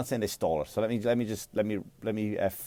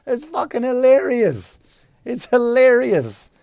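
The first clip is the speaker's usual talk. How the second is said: high, loud, drawn-out exclamation; stretched high-pitched cry of delight; hilarity; 13 semitones higher, 7 dB louder, slower than usual. Acted. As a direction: squeal it out slowly, way up high. Cracking up over his own mock example.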